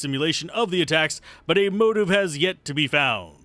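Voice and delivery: projected news report delivery; news anchor read. Acted. Reads the in-game news report aloud.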